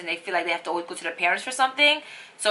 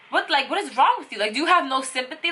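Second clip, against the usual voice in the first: retold outburst; 6 semitones higher, faster than usual. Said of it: "I start going crazy on him".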